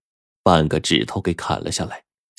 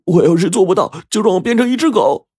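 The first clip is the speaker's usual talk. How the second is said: put-on much higher, louder boyish vow; eager young disciple; 13 semitones higher, 5 dB louder than usual. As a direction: swear it eagerly like a young boy. Boy swears vow to master.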